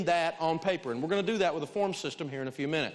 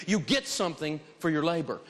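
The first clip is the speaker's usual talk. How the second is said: normal talking voice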